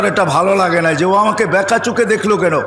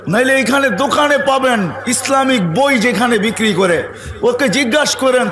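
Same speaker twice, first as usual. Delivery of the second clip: ordinary delivery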